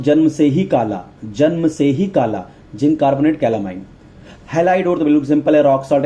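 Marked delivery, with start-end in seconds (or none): 0.0-2.4 measured mnemonic. Shown as a demonstration. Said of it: "इसको मैं याद करता हूँ".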